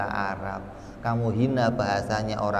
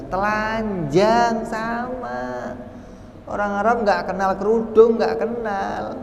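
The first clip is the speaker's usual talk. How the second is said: emphatic preaching shout; 11 semitones higher, 4 dB louder than usual. Acted. Preacher insists, voice raised.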